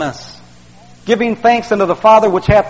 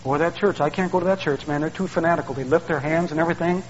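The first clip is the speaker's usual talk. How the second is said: scoffing outsider; 3 semitones lower, 8 dB quieter than usual. Retold or imitated. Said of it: "You come to church".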